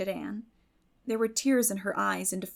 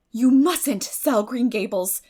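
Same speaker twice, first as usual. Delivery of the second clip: slow, louder and firm; resolute; 3 semitones higher, 9 dB louder, slower than usual. A narrator's reading. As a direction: set your foot down. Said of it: "said Anne resolutely".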